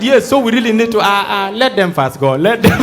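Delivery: loud, insistent order to wait; an officer barking to let them go; shouting officer. Acted. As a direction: yell at him to hold back.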